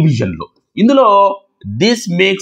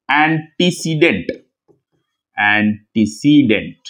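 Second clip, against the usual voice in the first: very slow, lower, syllable by syllable; measured repeat for note-takers, falling at the end; slow dictation; 5 semitones lower, much slower than usual. Real, not acted. Teacher writing out a new term, slow dictation.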